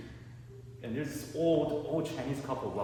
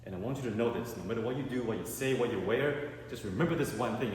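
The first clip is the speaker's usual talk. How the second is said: grave dad speech; 4 semitones lower than usual. Retold or imitated. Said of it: "he said".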